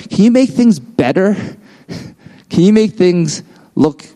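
high-pitched nagging imitation of boss; mock yelling. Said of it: "she'd be yelling at everything".

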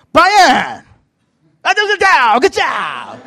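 loud, high mock coach yell; encouraging Brazilian master. Master encourages his struggling student, accented shouting. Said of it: "always encourage me".

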